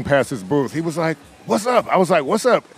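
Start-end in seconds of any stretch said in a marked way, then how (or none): 1.5-1.9 quoted greeting. Retold or imitated. Quoting Lionel's greeting to him. 2.2-2.6 quoted reply. Retold or imitated. Quoting own reply to Lionel.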